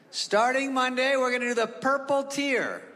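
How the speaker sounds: hammed-up governor at the podium; governor announcing. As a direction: announce it like an official.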